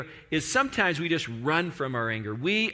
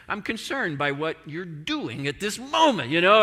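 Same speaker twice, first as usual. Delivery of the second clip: barely masked anger. Acted. Preacher mimics a Christian hiding anger as concern, irritated.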